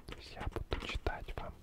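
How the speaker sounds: normal talking voice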